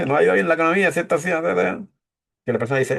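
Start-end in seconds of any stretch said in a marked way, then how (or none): 0.1-1.9 diciéndolo entre risas, un poco más agudo; suéltalo medio riéndote; riendo mientras habla. Shown as a demonstration. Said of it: "Y estás, te riendo". (dicho entre risas, sin seriedad)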